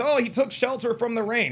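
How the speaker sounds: mock whiny retelling of the excuse; mocking quote. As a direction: mimic the excuse scornfully. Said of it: "the reason why everyone's".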